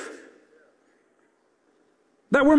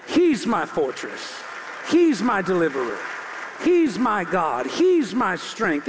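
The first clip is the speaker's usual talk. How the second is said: David declaring; 5 semitones lower than usual. Acted. David voiced declaring his faith.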